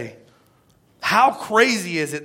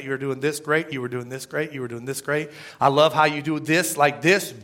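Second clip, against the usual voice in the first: praising boss; 4 semitones lower, 3 dB quieter than usual. Retold or imitated. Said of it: "by telling you how amazing".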